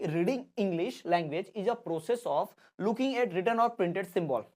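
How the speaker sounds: very slow, word-by-word dictation pace. Shown as a demonstration. Teacher dictating the definition to exam students, slow and deliberate. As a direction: dictate it slowly so students can write it down.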